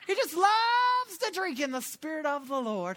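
slow, laughing retelling of her words; laughing quote. Retold or imitated. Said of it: "That's what she said".

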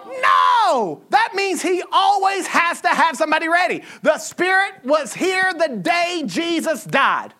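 high-pitched, forceful proclamation; emphatic preaching. Real, not acted. Preacher answering congregation about the devil's knowledge, emphatic preaching. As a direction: drive the answer home from the pulpit.

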